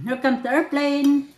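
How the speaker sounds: put-on slow, singsong coaxing to a toddler; airplane feeding game. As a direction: drag it out playfully to get a bite in. Mother feeds child with airplane game.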